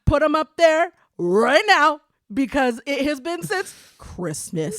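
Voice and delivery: loud, high, laughing plea; calling out to mom. Pretend. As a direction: call across the house to Carmen, teasing.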